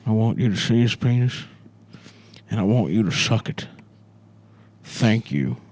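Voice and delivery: presidential address. Retold or imitated. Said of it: "Joe Biden impression".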